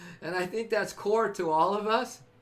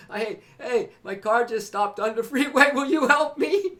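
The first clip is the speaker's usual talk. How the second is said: louder, rising plea for help; mock distressed driver calling for help; pleading for help; 2 semitones higher, 7 dB louder than usual. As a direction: call out like a stranded driver. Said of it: "run into my arms and say".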